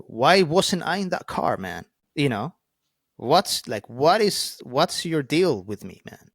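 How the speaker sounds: mock-shouting the old anger at God; retold yelling at God. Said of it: "yelling at God".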